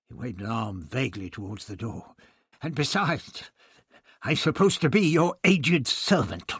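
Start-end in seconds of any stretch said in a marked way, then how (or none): 2.6-6.5 hint of sarcasm. A narrator's reading. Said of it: "a hint of sarcasm in his voice".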